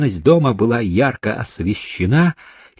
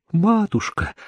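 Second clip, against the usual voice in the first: high-pitched desperate calling; desperate wail; 8 semitones higher than usual. A narrator's reading. Barefoot girl struggling in men's arms, wailing desperately. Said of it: "отчаянно голосила она".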